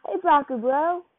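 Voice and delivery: a call shouted up from below; yelling up. A narrator's reading. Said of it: "You hear someone yell up".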